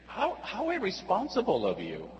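tut-tut at him like a worried friend; scolding friend. Retold or imitated.

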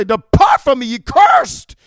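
voice of Jesus. Retold or imitated. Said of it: "will say".

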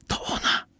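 hushed, breathless whisper. A narrator's reading. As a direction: whisper it so she can't hear. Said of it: "szepnął Tel".

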